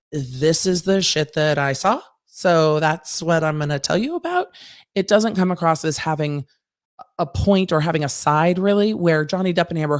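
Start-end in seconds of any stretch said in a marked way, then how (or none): 0.1-4.5 slow, unbothered, just-the-facts voice; lightly voiced witness stating what he saw; imitating matter-of-fact Ben. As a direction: shrug it off, no stake in it. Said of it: "Ben comes across as like".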